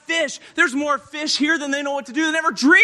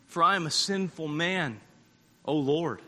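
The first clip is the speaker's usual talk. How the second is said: low, soft, humbled admission; hushed confession; 7 semitones lower, 7 dB quieter than usual. Acted. Simon kneeling to confess before Jesus, hushed. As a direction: lower it to a solemn hush. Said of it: "He confesses at that moment".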